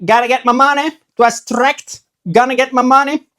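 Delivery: mock demanding customer. Customer demanding refund at post office, hammed-up pushy. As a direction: insist on getting the money back. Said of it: "how are you going to ask".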